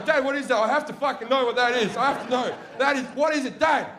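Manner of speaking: high-pitched, urgent begging for an answer; desperate pleading kids. Retold or imitated. Two sons beg Dad to say what it is, pleading. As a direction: imitate excited kids pestering for an answer.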